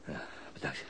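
tired gratitude from the ground; weak thanks. Acted. Gewond, bedankt redder. (zacht en uitgeput bedankt)

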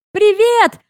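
high call down to the street; yelling back. Retold or imitated. Calling down from the roof to Luke. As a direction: hail him from above. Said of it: "ору я в ответ".

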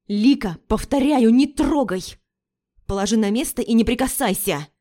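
loud, angry warning; near growl. Acted. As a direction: bark it as a final warning. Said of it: "Почти прорычала я". (громко, почти рыча)

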